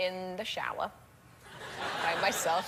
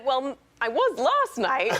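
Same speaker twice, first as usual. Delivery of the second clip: laughing confession; 4 semitones higher, 4 dB louder, slower than usual. Retold or imitated. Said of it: "And I said".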